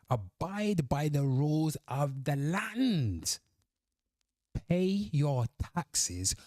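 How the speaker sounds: slow, emphatic read-out of a comment; deliberate proclamation with drawn-out phrase endings; reading comment aloud. Real, not acted. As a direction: declaim it slowly, phrase by phrase. Reads own comment aloud.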